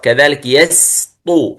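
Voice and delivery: يسطو drawn out very slowly with a thin س; thin sin demo. Shown as a demonstration. Teacher slowly demonstrates thin س in يسطو. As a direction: sound يسطو slowly, never turning the س into ص. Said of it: "لا تقول يسطو".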